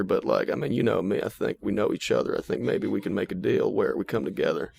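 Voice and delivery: lightly voiced sly Southern Clinton; Bill Clinton as a trickster. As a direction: cajole the Arby's cashier like a smooth dealmaker. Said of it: "trickster, Southern Fox".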